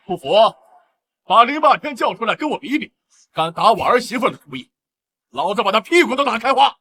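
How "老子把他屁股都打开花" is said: raised, higher-pitched threat; angry threat. Acted. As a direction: threaten him like a furious father. Father threatens the rival.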